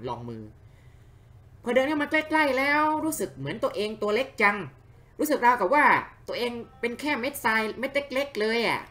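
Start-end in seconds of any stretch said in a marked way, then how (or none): 1.6-8.8 higher, voiced small and in awe; awed character voice. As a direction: gaze up at the giant ruins, amazed. (เสียงตัวละครตื่นตะลึงเสียงสูง)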